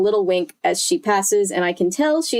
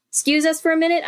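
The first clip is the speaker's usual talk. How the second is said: put-on "'Scuse us for a minute" lifted much higher, polite kid asking; brighter girl voice; 8 semitones higher, faster than usual. Shown as a demonstration. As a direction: ask the grown-ups in a higher, sweeter voice.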